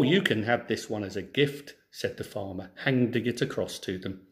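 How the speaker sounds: clear, lively storybook reading; story narration. Acted. Teacher reads a folk tale to schoolchildren, storybook narration. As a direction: read the tale to a class of children.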